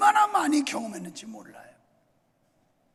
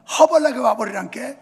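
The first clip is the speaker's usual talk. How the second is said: Jeolla dialect; 10 dB louder than usual. Retold or imitated. Preacher imitates a Jeolla speaker calling someone over, loud Jeolla accent. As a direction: belt it out like a Jeolla local. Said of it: "전라도는".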